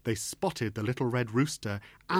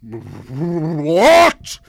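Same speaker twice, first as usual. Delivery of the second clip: loud, outraged spluttered what; spluttering what; 4 semitones higher, 16 dB louder than usual. Acted. Sultan spluttering at being called Sultana, loud and outraged. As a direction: choke out the word in disbelief. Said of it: "spluttered the Sultan".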